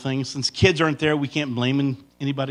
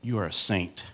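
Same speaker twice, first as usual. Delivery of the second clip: tender; 6 semitones lower, 4 dB quieter than usual. Shown as a demonstration. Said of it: "look at your wife right now and say".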